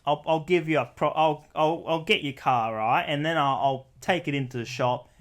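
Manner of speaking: lightly played Australian bloke; casual Australian-accented patter; Aussie accent. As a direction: reassure like an Aussie mate. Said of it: "I'll be Aussie".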